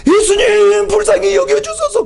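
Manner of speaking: high, loud desperate plea; pleading cry. Retold or imitated. Mother crying out to Jesus after him, high and loud. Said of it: "조그맣게 말한 것이 아니라".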